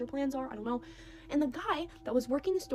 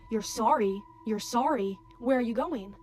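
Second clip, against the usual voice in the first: loud, punchy mock indignation; confrontational; 6 dB louder, slower than usual. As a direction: imitate someone getting in your face, loud. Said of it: "He gets in my face".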